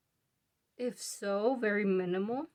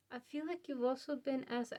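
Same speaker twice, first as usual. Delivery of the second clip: slightly winded, breathy speech; talking while short of breath; 2 semitones higher, 5 dB quieter than usual. Real, not acted. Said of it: "I'm out of breath for some reason".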